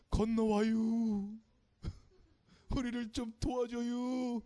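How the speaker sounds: a stranger in a dream begging for help, slowly; Macedonian man's plea. Acted. Macedonian man in Paul's dream calls him over, slow pleading. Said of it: "라고 말했던 것 같아요".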